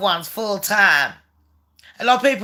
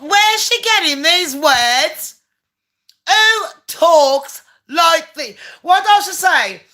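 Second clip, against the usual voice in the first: high, slow disbelief; who talks like this, slowly; incredulous; 6 semitones higher, slower than usual. Real, not acted. Mocking Megan's wording, high and slow.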